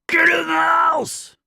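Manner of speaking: high, loud shout at the dogs; yell at the dog. Retold or imitated. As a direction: bark the order at the dogs. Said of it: "You hear me yell at my dog?".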